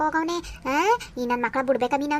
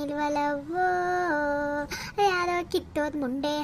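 crying daughter; 5 dB quieter than usual. Acted. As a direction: whimper it out through tears, hurt and bitter. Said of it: "ನೀನ್ ಅಳ್ಬೇಡ ನೀನು". (ಅಳುತ್ತಾ ನಿಧಾನವಾಗಿ ಮೆಲ್ಲನೆ ದೂರುವುದು)

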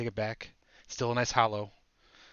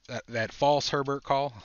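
amped up; 5 semitones higher, 6 dB louder, slower than usual. Real, not acted. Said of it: "got my blood going".

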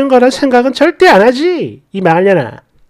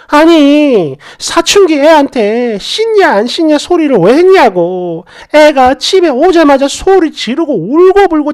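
higher, hammed-up furious relative; angry scolding; 4 semitones higher than usual. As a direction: rant at her like an outraged mother. Sister-in-law berating her on phone.

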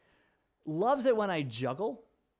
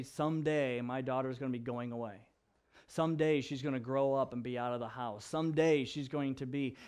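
low, mildly downcast musing; mopey, depressed; 4 semitones lower, 3 dB quieter than usual. Acted. Dad moping in chair about daughter leaving, mildly depressed. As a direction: mope with understated resignation. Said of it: "get all depressed and say".

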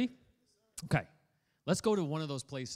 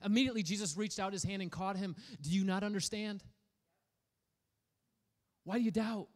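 gentle reading; 4 semitones higher than usual. Shown as a demonstration. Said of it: "read it in the Greek metaphor".

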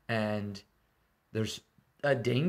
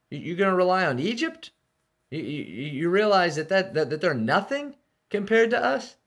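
mocking taunt; 6 semitones higher, 3 dB louder than usual. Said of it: "he mocks Judah's trust in Egypt".

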